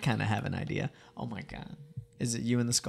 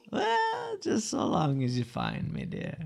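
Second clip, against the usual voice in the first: put-on movie character voice; 9 semitones higher, 5 dB quieter, slower than usual. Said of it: "Let me find this voice".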